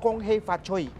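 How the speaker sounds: "Kong Hei Fat Choi" said the Cantonese way, kong-hey-fat-choy; Cantonese pronunciation. Shown as a demonstration. Guest showing the Cantonese greeting, Cantonese pronunciation. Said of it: "Iba lang yung pagkakapronounce".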